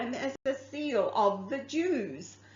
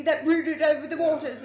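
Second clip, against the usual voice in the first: laughing through it; 5 semitones higher, 4 dB louder than usual. Real, not acted. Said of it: "I know, I can't do it".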